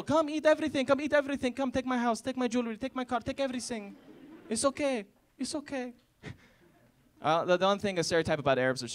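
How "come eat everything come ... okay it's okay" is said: pushy host. Acted. Overly hospitable host offering everything.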